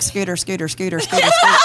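repeating the name. Retold or imitated. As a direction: chant the name, last one squeaked up. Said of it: "I was just like".

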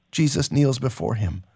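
steady, measured reading of a novel passage; story narration. A narrator's reading. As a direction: read it like a dramatic audiobook. Host reads novel passage aloud.

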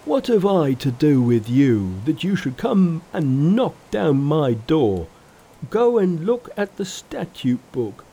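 enraged Pigsy yelling back; Pigsy's angry cry. Acted. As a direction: bluster at the intruder.

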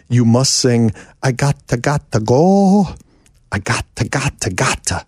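quoting Peter. Retold or imitated. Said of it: "he's giving me a lyric".

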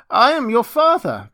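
high, loud declaration to his daughter; impassioned cry. A narrator's reading. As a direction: cry it out, unable to hold back. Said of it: "cried he".

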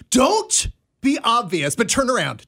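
imitating a friend's mild warning; retold urgent instruction. Dana warning her friend not to be obvious, mildly urgent retelling. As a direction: give a covert order, playfully retold. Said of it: "she was like".

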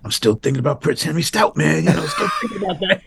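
hammed-up, overexcited old friend; excited Busey greeting. Actor greets his director at a premiere, laughing and excited.

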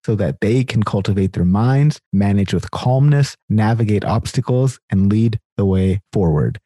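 upbeat announcer read of the guest bio; host intro read. Acted. Host reading the guest's bio to listeners, upbeat announcer style.

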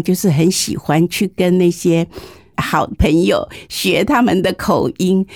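ordinary delivery

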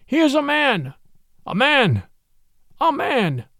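high snarling chant of wolves; snarling pack. A narrator's reading. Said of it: "snarled the pack".

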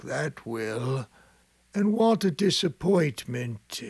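slow, lightly voiced old man lamenting. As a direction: grumble sadly about the coffin wood. Sexton laments lost coffin.

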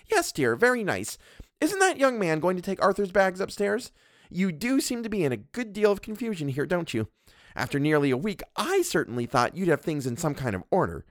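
a domineering wife scolding her husband; Mrs Montague. Acted. Mrs Montague lectures the doctor, haughty and bossy.

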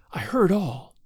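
voiceless, secretive whisper. A narrator's reading. Frightened girl confides in her brother at night, whispering. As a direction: whisper it under the breath. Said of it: "replied Marcella in a whisper".

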